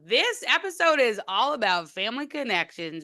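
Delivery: stiff reading aloud. Real, not acted. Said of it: "Why does it sound like you're reading a podcast?".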